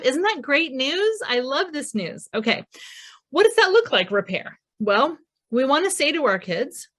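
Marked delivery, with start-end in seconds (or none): 0.0-2.3 excited. Real, not acted. Excited about hopeful news. 3.3-4.6 emphatic question. Real, not acted.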